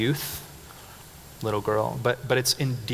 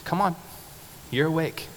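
gentle waking; 5 semitones higher, 4 dB quieter than usual. Retold or imitated. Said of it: "like she's just waking up from a nap".

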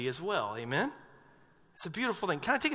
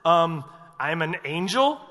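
rising "angel?" as if it's obvious; incredulous angel; 4 dB louder than usual. Retold or imitated. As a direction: ask it like the answer should be plain. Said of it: "the angel's first response is".

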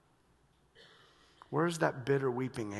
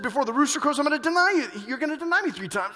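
Jesus warning; 10 semitones higher, 8 dB louder, faster than usual. Retold or imitated. Jesus voiced in loud sermon.

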